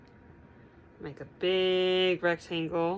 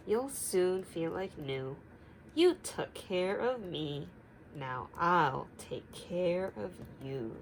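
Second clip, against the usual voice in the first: slow, softer comforting words; tender reassurance; 3 dB quieter, slower than usual. Acted. Bear tells sick friends, slow and gently reassuring. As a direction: tuck them in gently.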